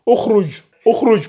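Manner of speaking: "ukhruj" lu avec un ou initial; lecture avec ou initial. Shown as a demonstration. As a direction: prononce "ukhruj" en commençant par le son ou. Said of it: "ça sera un ou". ("ukhruj" articulé à l'arabe, ou au début)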